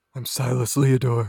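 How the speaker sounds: put-on sleazy, creepy, lecherous creep voice. Introducing a character while others laugh: put-on pervert voice. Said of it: "Zach's starting to lean into the pervert".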